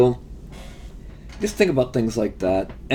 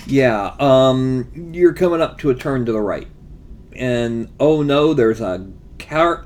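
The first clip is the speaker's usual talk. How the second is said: game master voice; 3 dB louder than usual. Shown as a demonstration. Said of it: "Just say".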